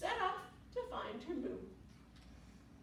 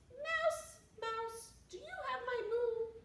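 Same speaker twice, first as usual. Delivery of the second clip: high little sing-song question; cow asking; 11 semitones higher than usual. A narrator's reading. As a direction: call out in a raised, storybook voice. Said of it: "she asked the mouse".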